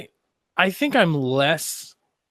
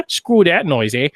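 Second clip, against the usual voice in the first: mock Canadian; 2 semitones higher, 5 dB louder than usual. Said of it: "I don't know why I went Canadian".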